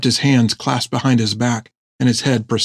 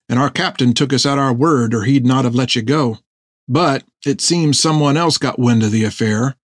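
lilting, slightly raised sailor's voice; sailor explaining himself; 2 semitones higher than usual. Acted. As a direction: play a rough-spoken seaman earnestly making his case. Narrator voices Fred explaining himself.

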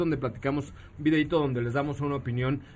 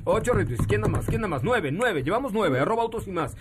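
auctioneer; 4 semitones higher than usual. Acted. Calling for more retweets like bids.

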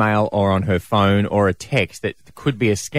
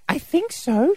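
much higher put-on voice of a worried wife; imitating wife. Husband mimicking his wife's worried phone call, high put-on voice. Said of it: "She's like".

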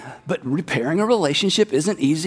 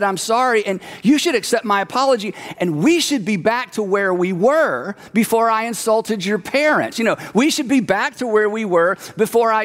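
indignant self-righteous whine; 2 semitones higher than usual. Retold or imitated. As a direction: play the wronged apologizer.

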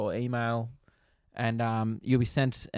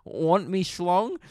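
higher, drawn-out teasing question; mock stripper teasing; 5 semitones higher, much slower than usual. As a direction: lightly imitate a stripper working the crowd.

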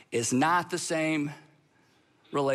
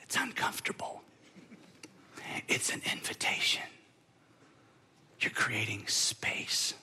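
whispered into the silence; a voiceless whisper to let the silence hang; 10 semitones lower, 7 dB quieter than usual. Shown as a demonstration. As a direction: barely breathe it out. Whispers while the room sits silent.

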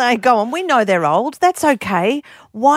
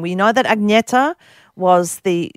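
slight Swedish accent. Shown as a demonstration. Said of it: "the slight Swedish accent".

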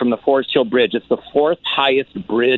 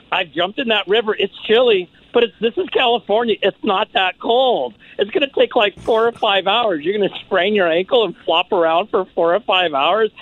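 mock-casual teasing; 7 semitones higher than usual. Comedian teasing the girl about hypothermia, high playful. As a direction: laugh her out of it.

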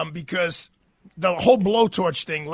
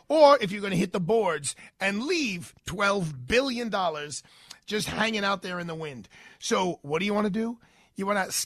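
ordinary talk, nothing marked

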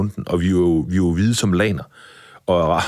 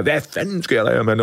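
retold yell; 4 semitones higher than usual. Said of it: "jeg råbte og skreg".

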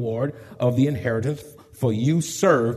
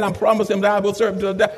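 quoting the member; 5 semitones higher, 3 dB louder, faster than usual. Retold or imitated. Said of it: "They said".

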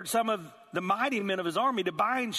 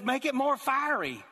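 mock king's command; 8 semitones higher, 3 dB louder than usual. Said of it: "And he just says".

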